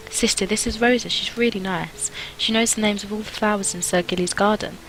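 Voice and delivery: a hint of a little girl introducing her friend; lightly voiced little girl.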